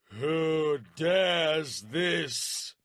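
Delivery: slow, loud, drawn-out bellow of outrage; outraged bellow. A narrator's reading. Warlord bellowing at the magician, outraged. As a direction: roar it across the arena. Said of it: "a bellow of outrage sounded".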